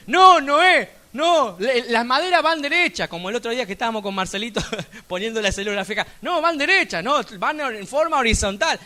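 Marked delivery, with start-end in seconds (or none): 0.1-3.1 loud, higher-pitched know-it-all objection; objecting critic. Acted. Onlookers telling Noah he is doing it wrong, loud objection. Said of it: "gente que te va a decir". 6.2-8.8 higher, louder contradicting voice; know-it-all critic. Acted. Critics arguing over how the wood should go, insistent contradiction. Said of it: "un experto en criticar".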